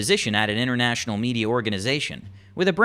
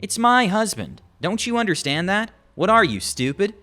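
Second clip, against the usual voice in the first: mock yell; 5 semitones higher than usual. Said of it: "the woman starts to yell".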